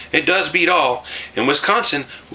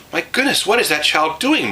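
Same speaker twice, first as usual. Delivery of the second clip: high, startled mother; surprised exclamation; 8 semitones higher than usual. A narrator's reading. Mother finding her girl milking the cow, surprised. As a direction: gasp at the child. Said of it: "Ma exclaimed".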